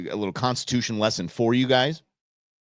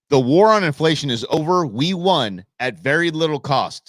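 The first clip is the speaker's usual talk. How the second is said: mock triumphant quote; 4 semitones higher, 5 dB louder than usual. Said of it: "says Paul Krugman".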